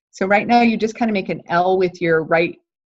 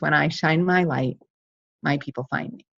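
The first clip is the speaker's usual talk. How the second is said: sincere; 3 semitones lower, 5 dB quieter than usual. Shown as a demonstration. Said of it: "So my message is".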